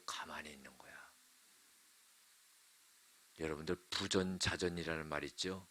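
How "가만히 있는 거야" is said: hushed whisper. Acted. Preacher telling the congregation Isaac lay still, whispering. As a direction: drop to a whisper to hold the room still.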